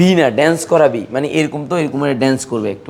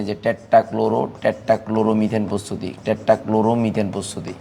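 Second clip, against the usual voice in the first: slow, lower, measured dictation; 4 semitones lower, 5 dB quieter, much slower than usual. Real, not acted. Teacher dictating a heading to the class, slow dictation. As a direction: spell out the term slowly for note-takers.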